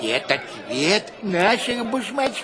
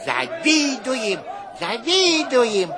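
slow, loud drawn-out chant; shouted cheer; 2 semitones higher, 3 dB louder, slower than usual. Shown as a demonstration. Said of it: "Вот так".

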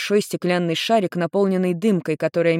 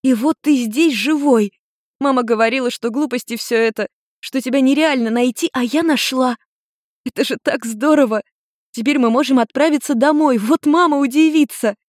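put-on higher young girl's voice, bubbly; teen girl Ruri; 8 semitones higher, 4 dB louder than usual. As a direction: lightly voice a relieved teenage daughter. Girl voice in read story.

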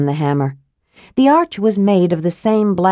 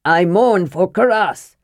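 distant cry. Acted. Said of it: "He heard a distant voice cry".

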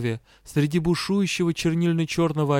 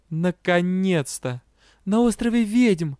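near tears; 5 semitones higher than usual. Acted. Frightened heroine blurts answer.

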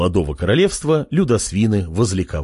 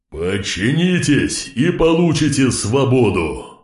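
king's shout; slower than usual. Acted. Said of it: "выкрикнул король".

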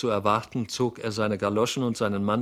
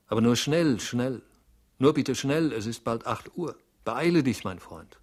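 urging with bursts of emphasis; urgent hurrying; 3 dB louder than usual. Acted. Master sending his servant off before eight, urgent hurrying. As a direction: press him to hurry, punching the first words of each phrase.

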